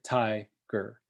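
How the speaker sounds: "Tiger" with TI stressed, jaw dropping; jaw-drop stress. Shown as a demonstration. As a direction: open the jaw wide on TI in "Tiger". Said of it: "you can see my mouth drop".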